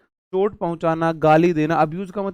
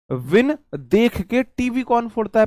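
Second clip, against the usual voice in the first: high, rising quiz question; teacher testing students on the trick, high and rising; quizzing the class; 7 semitones higher, 3 dB louder than usual. Shown as a demonstration. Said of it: "teacher quizzing the class".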